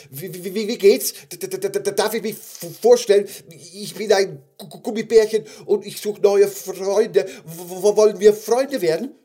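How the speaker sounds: high, stuttering little voice; nervous stammer. Acted. Gummy bear asks huge bear for friendship, nervous stammer. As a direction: stammer timidly, stuck on first sounds.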